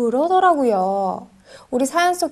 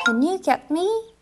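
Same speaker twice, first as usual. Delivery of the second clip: slow demo; 3 semitones higher, 3 dB quieter, much slower than usual. Shown as a demonstration. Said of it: "패턴을 앞에 붙여야겠죠".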